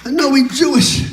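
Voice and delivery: sermon cry for black folks; preaching plea. Acted. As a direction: preach the plea as if begging God.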